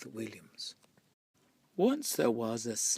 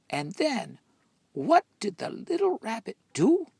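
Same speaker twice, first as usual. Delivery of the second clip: excited; 10 semitones higher, 7 dB louder than usual. A narrator's reading. Lively question to listener.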